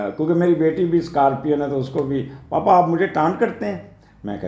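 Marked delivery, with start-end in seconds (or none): 2.2-4.0 a higher, lightly voiced daughter asking; daughter's complaint. Father imitating his daughter accusing him of taunting, mild higher voice. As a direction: playfully mimic a teenage daughter's protest.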